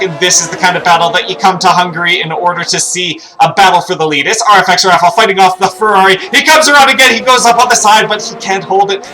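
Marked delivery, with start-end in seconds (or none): 6.2-9.1 excited commentary. Real, not acted. Battle for the lead, overtake attempt.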